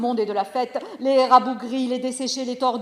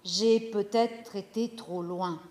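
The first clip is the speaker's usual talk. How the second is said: much softer, slower, hushed thought; inner thought; 4 semitones lower, 10 dB quieter, slower than usual. Acted. Mother-in-law thinking after the shout, hushed. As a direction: whisper it to yourself, doubtful. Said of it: "elle pense".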